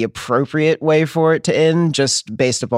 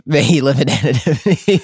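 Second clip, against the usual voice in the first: laughing echo. Real, not acted. Echoes host's joke, laughing.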